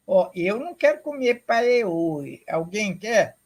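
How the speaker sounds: playful teasing teacher; mock disgust. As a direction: tease the kids about the strange word. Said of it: "teacher joking to the children".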